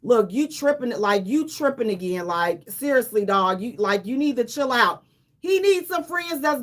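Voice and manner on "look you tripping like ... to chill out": lower, laid-back buddy voice; good friend pulling Tyrese aside, low and chill; friend telling him off. Retold or imitated. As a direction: talk him down like a homeboy. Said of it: "be like".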